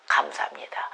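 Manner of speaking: 감사합니다 breathed as a soft whisper; whispered thanks. Retold or imitated. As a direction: whisper the 감사합니다 like a hushed prayer. Pastor voicing David's thanks. (속삭이듯 감사합니다)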